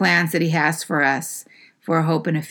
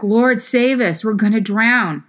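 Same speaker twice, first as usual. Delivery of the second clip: mock panicked plea; 4 semitones higher, 3 dB louder than usual. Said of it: "they're like".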